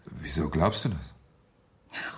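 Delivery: whispered, slow and careful; slow tense whisper. Acted. Husband questioning his wife about the caller, in a slow whisper. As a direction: drag the question out under your breath.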